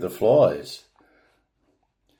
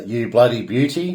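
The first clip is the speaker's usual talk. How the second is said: Aussie slang. Shown as a demonstration. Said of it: "most often explained as".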